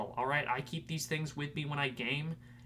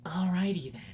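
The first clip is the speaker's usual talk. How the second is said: catchphrase; 5 semitones higher, 7 dB louder than usual. Pretend. Catchphrase said loudly.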